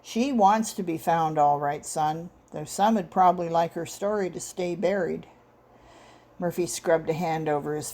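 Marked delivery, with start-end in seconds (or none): 0.0-5.3 bass rumble. Acted. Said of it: "Carson's bass rumble seemed to resonate up from his boots".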